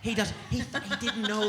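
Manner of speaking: slow, indulgent aww; mock sympathetic American. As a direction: pity him as you would a lost kid, drawn out. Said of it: "Everybody just goes".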